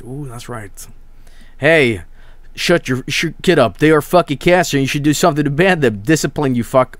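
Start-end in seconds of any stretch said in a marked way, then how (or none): 1.6-7.0 acted irritated telling-off; exasperated mock rant; mock scolding. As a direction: scold an unruly kid in jest. Acted scolding of an unruly chat.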